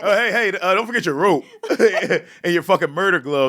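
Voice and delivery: sarcastic. Acted. Mocking cops returning the evidence.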